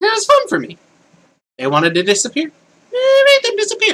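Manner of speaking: very high, gleeful, mad character voice.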